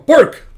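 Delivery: loud, high barked word; dog bark. Acted. Imitates a dog's bark.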